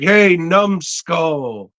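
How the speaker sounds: mock insult. Teacher jeering at a football player in class, drawn-out mock insult. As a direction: call out the jeer slowly.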